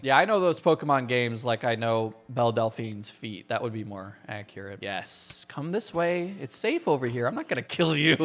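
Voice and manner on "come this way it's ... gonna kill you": coaxing. Pretend. Luring mobs that he needs.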